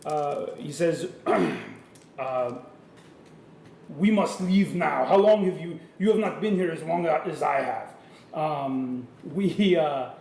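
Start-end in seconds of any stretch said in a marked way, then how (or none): 4.0-7.9 put-on botched Russian accent, part French, part Schwarzenegger; hammed-up Russian bear with a slipping accent; French Arnold accent. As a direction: speak in a clumsy mixed European accent. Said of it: "like, this French Arnold version".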